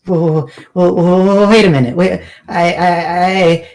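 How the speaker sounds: flustered NPC caught with the evidence; horrified stammer. Acted. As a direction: blurt it out in sudden alarm. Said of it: "looks horrified".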